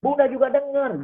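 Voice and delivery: hammed-up angry mother; mock scolding mother. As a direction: imitate a mom snapping at her kid for yelling. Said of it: "Bunda marah-marah sama anaknya".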